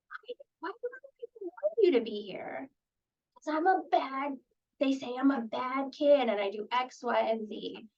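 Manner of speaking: put-on kid answering. Lightly voiced kid saying others call him bad. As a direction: answer like a kid who's been labeled.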